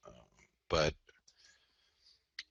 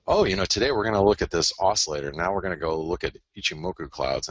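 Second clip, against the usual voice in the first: mock flashy analyst; 3 semitones higher than usual. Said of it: "I change it up and go".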